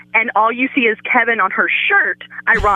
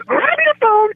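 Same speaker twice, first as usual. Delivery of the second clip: retold urgency; 13 semitones higher, slower than usual. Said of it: "she's like".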